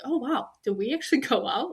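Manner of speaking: laughing through mock disbelief. She laughs retelling her first panicked thought.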